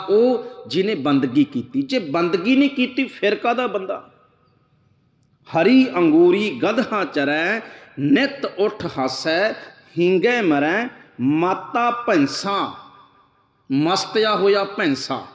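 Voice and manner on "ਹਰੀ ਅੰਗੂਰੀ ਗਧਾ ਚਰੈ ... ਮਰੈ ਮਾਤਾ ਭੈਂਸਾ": slow, chanted reading of the verse; slow devotional recitation of gurbani; scripture recitation. Acted. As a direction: draw out each word like a hymn line.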